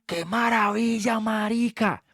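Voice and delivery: drawn-out awe, as if hypnotized; hammed-up teenage wonder; mock amazement. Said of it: "y yo".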